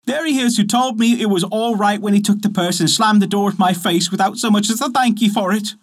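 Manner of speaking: a lightly voiced country wife accusing the footman; indignant wife. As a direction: point him out and swear to it.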